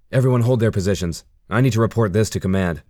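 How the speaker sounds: loud, quick order; firm command. Acted. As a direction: snap out orders to the team.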